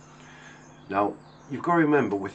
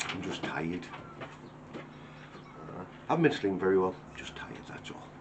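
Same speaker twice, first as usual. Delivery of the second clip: tired brush-off; 4 semitones lower, 7 dB quieter than usual. Retold or imitated. Brushing off worry, acting exhausted.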